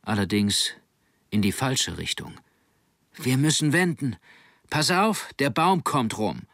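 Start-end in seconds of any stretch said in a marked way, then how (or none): 3.1-6.4 higher-pitched called command; urgent warning call. Acted. Helmsman warning his mate before tacking, urgent call. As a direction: call the manoeuvre and warn your mate.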